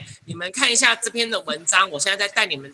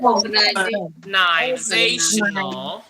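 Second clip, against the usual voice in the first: organizational drawn out very slowly, syllable by syllable; much slower than usual. Shown as a demonstration. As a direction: model the word slowly for students. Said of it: "先跟我念一遍哦". (一个音节一个音节慢慢念)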